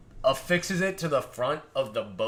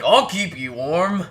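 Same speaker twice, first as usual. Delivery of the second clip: flirty dwarf; 5 semitones higher, 8 dB louder than usual. Acted. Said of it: "and he's like".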